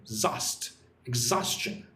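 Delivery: "Zost" alone, then "exhaustion" with its middle syllable stressed; second-syllable stress. Shown as a demonstration. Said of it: "Put the stress on the second syllable".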